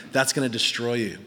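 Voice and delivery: low, measured counsel; wise warning. Acted. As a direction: speak a grave warning into someone's life. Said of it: "with wisdom and the gift of prophecy speaking".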